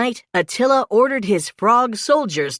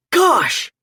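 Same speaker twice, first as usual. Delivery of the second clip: surprised; 9 semitones higher, 3 dB louder than usual. A narrator's reading. Mikey exclaims after throw.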